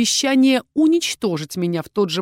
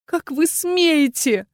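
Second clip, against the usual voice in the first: slow, higher, furious exhale; breathed in fury; 7 semitones higher, much slower than usual. A narrator's reading. Witch outraged at the dragon's hint, furious. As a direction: let the outrage break out on a breath. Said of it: "выдохнула яростно".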